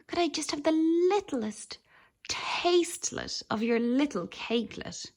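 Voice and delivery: sweet, coaxing little voice asking for cake; a lightly voiced, pleading little critter; wheedling little creature. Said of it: "trilled Dradru".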